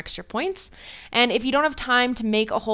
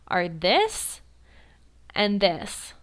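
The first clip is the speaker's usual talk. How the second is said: whisper; much slower than usual. Shown as a demonstration. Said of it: "two most used types of T P R".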